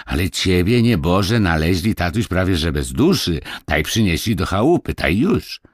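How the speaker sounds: lightly voiced country lad telling news; lively village boy. Kuba tells Marysia how she was found, with lively voice.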